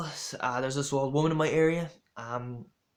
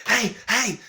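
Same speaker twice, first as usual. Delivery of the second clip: mock shout, pitched higher; retold shout; 8 semitones higher, 3 dB louder than usual. Construction worker calling out to passing runner, raised mock shout. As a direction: call it out like a worker hailing someone. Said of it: "started shouting at me".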